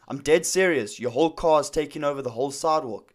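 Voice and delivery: imitating an angry man insisting he is serious; retold angry insistence. Angry stranger insists to smiling pizza driver, retold angry insistence. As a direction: press the complaint with mild retold anger. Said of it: "he's angry now".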